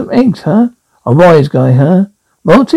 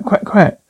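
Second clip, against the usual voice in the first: duck quack imitation; 5 dB quieter than usual. Shown as a demonstration. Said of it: "Ducks go quack".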